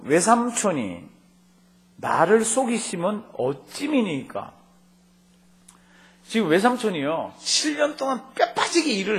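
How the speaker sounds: 높고 느리게 따지듯이; 속은 사위가 외삼촌에게 높은 톤으로 따지는 목소리. Shown as a demonstration. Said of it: "이게 톤이 높았겠어요?". (외삼촌에게 속아 화가 난 야곱이 따지듯 높고 느리게)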